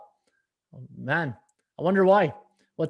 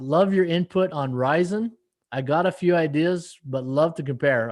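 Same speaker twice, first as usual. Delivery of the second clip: puzzled re-read. Retold or imitated. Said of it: "what do you mean by that?".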